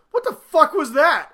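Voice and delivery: high, loud mock outrage; shocked outburst. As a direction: imitate the wife's stunned outrage. Wife shocked by the show.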